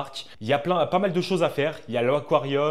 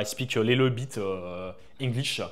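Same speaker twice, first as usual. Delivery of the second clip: put-on French-accented English. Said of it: "ça va peut-être vous faire rire parce qu'on a un accent anglais".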